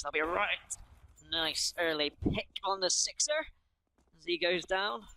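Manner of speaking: put-on slow, rolling West Country accent. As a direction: drawl it like a Somerset farmer. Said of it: "I find my West Country accent".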